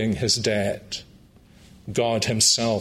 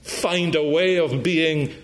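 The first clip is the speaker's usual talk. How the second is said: fervent plea; 4 semitones higher than usual. Acted. Tax collector's prayer retold passionately.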